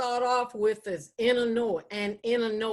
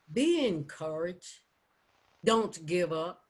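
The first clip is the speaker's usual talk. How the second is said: measured poetry reading, long pauses between lines; spoken poem as gentle counsel; poem recitation. Acted. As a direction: recite it deliberately, letting each line stand. Recites her own poem.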